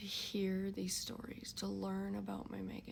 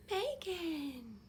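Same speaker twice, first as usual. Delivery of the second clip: calm call; 9 semitones higher than usual. Retold or imitated. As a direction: call her name out, held steady and not panicked. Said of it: "Because I could not panic".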